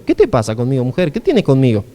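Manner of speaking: low-pitched, lightly acted reproach; mild scolding. Jesus answers Mary at Cana, mildly scolding. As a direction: challenge her as if telling her off. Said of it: "Pero no es así".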